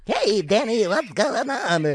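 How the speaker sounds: very high, loud elf shout-out. Acted. Mocking the elf staying in character, high loud elf voice. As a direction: squeal the greeting like a cartoon elf. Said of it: "do the elf voice".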